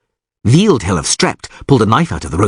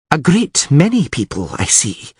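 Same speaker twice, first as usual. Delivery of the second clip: drawling; 5 semitones higher than usual. A narrator's reading. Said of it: "said Calanthe in a drawling voice".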